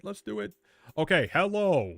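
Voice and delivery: can't contain the thrill of new patch notes; giddy excitement. Real, not acted. Streamer finds the patch notes for chat, giddy squeal.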